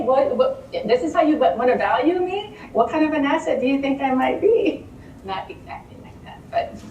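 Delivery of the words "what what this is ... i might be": assertive demand. Shown as a demonstration. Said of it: "you have to say".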